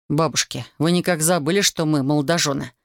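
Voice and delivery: usual speaking voice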